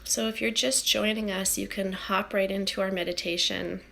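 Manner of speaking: calm, unhurried meditation guiding; soothing guide settling a group into stillness; guided meditation. Acted. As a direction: ease listeners inward with long, settled pauses.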